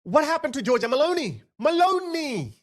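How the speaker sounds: rising to a high exasperated cry of Meloni; mock Italian outrage. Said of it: "They're like".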